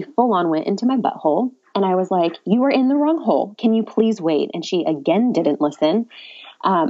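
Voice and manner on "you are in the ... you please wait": mildly exasperated, pitched high; retold indignant protest. Patient objecting to the doctor's check, retold indignant protest. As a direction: re-enact an urgent objection, voice jumping up.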